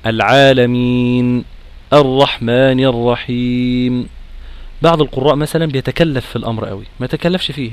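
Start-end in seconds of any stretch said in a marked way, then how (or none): 0.1-4.1 slow "الرحمن" stopping on the noon with its ghunna. Shown as a demonstration. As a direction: hold "العالمين" slowly at the stop. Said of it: "أقف مثلًا". (وقف بطيء مع غنة النون)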